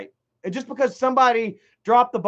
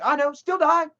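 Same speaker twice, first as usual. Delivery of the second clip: cold still die; 6 semitones higher than usual. Retold or imitated. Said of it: "it's pretty much that inflection too".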